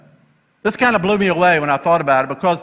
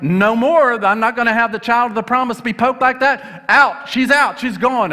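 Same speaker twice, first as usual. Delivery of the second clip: indignant Sarah; 4 semitones higher than usual. Retold or imitated. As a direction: throw her out in a huff, acted loosely. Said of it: "Sarah's like".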